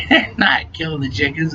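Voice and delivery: drowsy mumble, lightly acted; sleepy. Half-asleep guy dismisses girlfriend, mock sleepy. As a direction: roll over and brush it off sleepily. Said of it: "I was all sleepy and shit".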